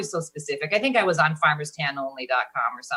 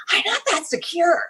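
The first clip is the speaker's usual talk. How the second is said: squeaky aside; 11 semitones higher, 3 dB louder than usual. Acted. Self-deprecating squeaky aside.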